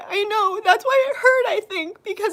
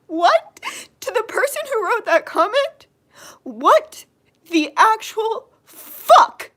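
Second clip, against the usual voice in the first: outraged; 3 semitones higher, 4 dB louder, slower than usual. Real, not acted. Outraged at a hateful comment.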